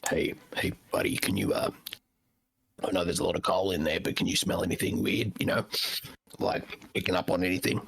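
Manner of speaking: low, rough undead whisper-rasp; raspy cigarette voice. Acted. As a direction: rasp it out like an old smoker. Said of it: "undead raspy cigarette voice".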